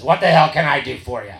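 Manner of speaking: loud, no-nonsense acted demand; lightly voiced gruff grandpa who means business; stern, means business. Old sponsor confronts a shaky newcomer at the meeting, stern. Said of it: "like your grandpa means when he, when he means business".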